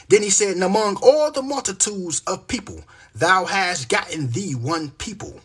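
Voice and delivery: emphatic, measured verse reading; preacher's cadence, leaning on key words; scripture recitation. Acted. Declaims scripture to listeners.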